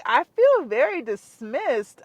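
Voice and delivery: slow, measured self-quote; not rude. Retold or imitated. Patient tells doctor she feels dismissed, not rude. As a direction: stretch it out, firm but civil. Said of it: "I literally said it just like this".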